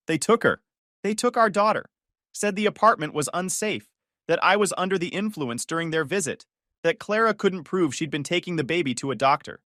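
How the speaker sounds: high, upset pleading protest; raw, distraught outburst; distressed. Acted. Brother upset after child taken.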